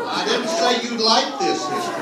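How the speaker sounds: laughing as he teases the audience. Real, not acted. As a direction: laugh the line out to the crowd.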